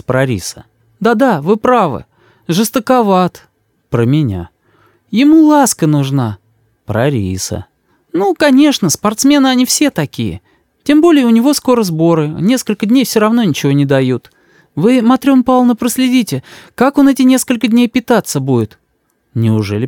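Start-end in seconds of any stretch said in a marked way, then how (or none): 1.0-3.5 высокий, ласковый голос матери; мама заступается за сына. A narrator's reading. 5.1-6.4 высокий, ласковый голос матери; мама заступается за сына. A narrator's reading. 8.1-18.8 высокий, ласковый голос матери; мама заступается за сына. A narrator's reading.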